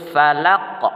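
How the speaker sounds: "falaq" with a strong bounce on final q; "falaq" ending in a bounced back-of-throat q; qalqalah kubra. Shown as a demonstration. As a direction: release the q of "falaq" with an echoing bounce. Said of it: "qalqalah yang pantulannya dibaca keras".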